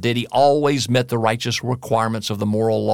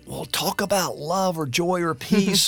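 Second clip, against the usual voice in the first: imitating people who expect the usual words, pitched higher; a lightly voiced, higher "heard it all" listener; mock bored listener; 8 semitones higher than usual. Pastor imitating listeners who want the usual topics, mock voice. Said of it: "a lot of people go".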